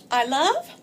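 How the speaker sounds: put-on lightly chirped baby talk; baby voice chirping. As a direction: chirp it like a toddler. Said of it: "the baby voice chirping".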